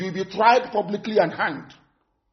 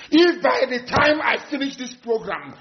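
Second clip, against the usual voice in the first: forceful shout; 3 semitones higher than usual. Real, not acted. Threat restarted with shout.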